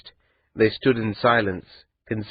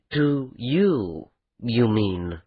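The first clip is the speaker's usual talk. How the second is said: slow and bitter; much slower than usual. Acted. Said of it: "pulling the words out slow and bitter".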